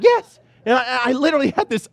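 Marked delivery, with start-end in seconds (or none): 0.0-0.4 much higher, louder "Yes"; arguing with God, insistent. Retold or imitated. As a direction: plead it back hard. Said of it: "He's like".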